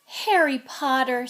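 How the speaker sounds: squeaky little house-elf voice, slowed; lightly voiced eager house elf; high-pitched elf voice. A narrator's reading. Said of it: "in a high-pitched voice".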